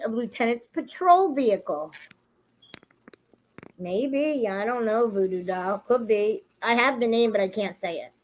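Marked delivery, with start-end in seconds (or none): 3.8-8.1 out of breath, pneumonia; short of breath, voice fading; running out of air. Real, not acted. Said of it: "I'm running out of breath".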